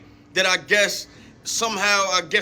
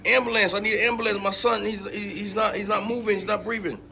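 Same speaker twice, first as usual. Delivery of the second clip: imitating panic. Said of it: "She panicked".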